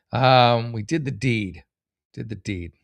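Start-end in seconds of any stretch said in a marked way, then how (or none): 2.1-2.7 mock echo. Shown as a demonstration. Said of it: "It's a weird thing to say".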